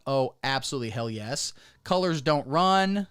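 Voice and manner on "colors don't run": mock patriotic.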